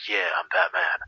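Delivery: lightly imitated intimidating hero voice; Batman. Fan imitates the actor's Batman, mildly intimidating. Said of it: "He can be very intimidating".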